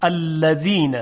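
الذین with a dental Arabic dhal, not z; dhal in a word. Shown as a demonstration. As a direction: say الذین with the tongue tip on the upper teeth. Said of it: "مثلاً در کلمهٔ". (الذین با ذال عربی)

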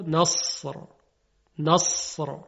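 نصر with a thick, heavy sad sound; heavy emphatic sad. Shown as a demonstration. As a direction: say نصر from the back of the mouth, heavy and full. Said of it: "حالا همین رو درشت کنید صدا رو". (نصر با صاد درشت و پُر)

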